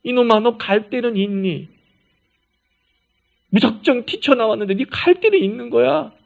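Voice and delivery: affectionate rebuke with worry underneath; a gruff but loving elder checking on a runaway; fond scolding concern. Shown as a demonstration. God asking Hagar where she'll go, fondly scolding. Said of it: "이렇게 읽어야 되는 거예요".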